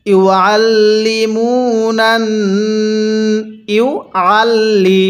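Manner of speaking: slow chanted ইউআল্লিমুনান, long "moo"; elongated mim. Shown as a demonstration. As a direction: stretch the vowel after mim, keep level. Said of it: "মিমের মধ্যে টান হবে". (মিমে এক আলিফ টেনে তিলাওয়াত)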